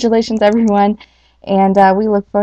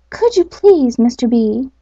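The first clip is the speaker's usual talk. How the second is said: timid; 3 semitones higher than usual. Acted. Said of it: "added the owl timidly".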